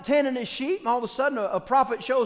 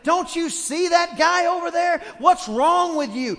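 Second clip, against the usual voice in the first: scolding; 2 semitones higher, 5 dB louder than usual. Retold or imitated.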